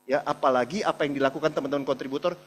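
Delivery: ordinary delivery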